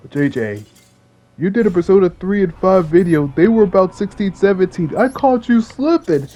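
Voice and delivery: playful mimicry, dragged out at the end; mock accusing commenter. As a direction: imitate a viewer calling you out. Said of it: "looking at my comments like".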